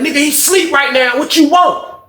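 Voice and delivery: high, slow mocking tone; menacing answer. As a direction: brush him off from behind the door. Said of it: "He was like".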